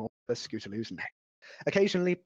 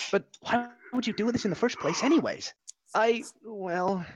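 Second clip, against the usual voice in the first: curious; 8 semitones higher than usual. Acted. Dash then Scootaloo.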